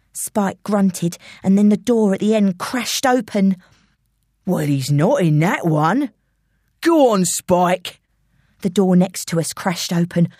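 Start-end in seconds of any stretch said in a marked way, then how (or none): 4.4-8.0 London gangster on the hunt; London villain. Acted. Intruder searching cupboards with henchman, villain voice. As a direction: goad the henchman on.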